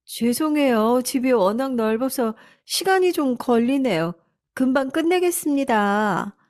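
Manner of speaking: a housemaid hurrying to please; polite housekeeper. Acted. Housekeeper apologizing to the young wife, meek and polite.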